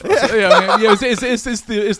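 loud laugh through the words; laughing loudly. Real, not acted. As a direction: burst out laughing while talking. Host cracks up at radio voice.

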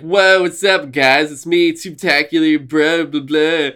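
lightly voiced cartoon dog; a hint of a goofy animated mascot. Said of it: "and it's this dog".

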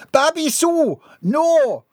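high, loud cry of protest; frantic cry. A narrator's reading. Missus Dixon trying to stop Bobby Sue, frantic cry. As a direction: call after her in panic. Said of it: "voice was lost in the mass hysteria".

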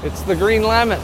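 high, loud title call; announcer voice. Acted. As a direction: call out the show name. Announcing show name.

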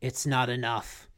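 low, quiet deadpan quote; understated deadpan villain. Retold or imitated. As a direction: state it low and unimpressed. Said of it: "Dude, he just so deadpan".

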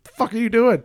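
high, loud imitation of disbelief; mock outraged protest. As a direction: squawk it as a startled partner. Retelling partner's shocked protest.

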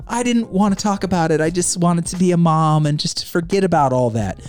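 a hint of a defensive mom; lightly voiced excuse-making wife; mocking Janet. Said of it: "And she's like".

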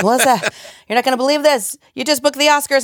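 high excited agent voice; bursting with big news. Retold or imitated.

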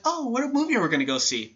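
put-on high, soft, sweet girlish question. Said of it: "All sweet and".

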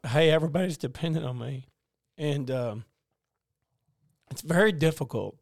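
fighting back tears, with long pauses; real choked-up telling; emotional. Real, not acted. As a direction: halt and sigh to regain composure. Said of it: "Sorry, I got emotional".

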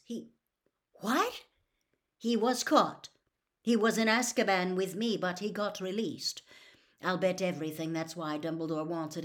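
hurried warning to Harry, pushing the voice out; Sirius. Acted. Sirius explains Karkaroff.

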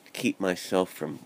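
talking through a mouthguard; words blurred by a mouth guard; wearing a mouthguard. Real, not acted. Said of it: "as I have my mouth guard in".

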